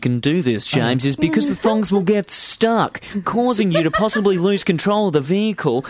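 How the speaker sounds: a touch of a formal instructor; lightly voiced stern instructor; driving instructor voice. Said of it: "It's my driving instructor voice".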